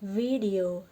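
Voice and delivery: "Video" begun with a voiced, buzzed v; thick English V. Shown as a demonstration. Teacher modelling the word for students, thick voiced V. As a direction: say "Video" with a full v, never an f. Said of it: "V-nya dibaca tebal ya".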